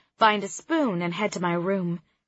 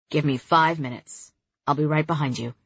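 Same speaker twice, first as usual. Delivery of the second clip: muffled, lower male voice; 5 semitones lower than usual. Acted. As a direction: speak from away from the phone, muffled. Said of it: "Kareem's muffled voice says".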